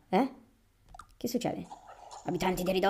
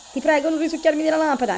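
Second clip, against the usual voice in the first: pleading; 6 semitones higher, faster than usual. Acted. Genie begging.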